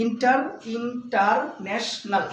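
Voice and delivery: "ইন্টারন্যাশনাল" slowly split with gaps between syllables; slow four-part "ইন্টারন্যাশনাল". Shown as a demonstration. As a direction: count out ইন, টার, ন্যাশ, নাল as four beats. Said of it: "এখানে চারটা syllable আছে".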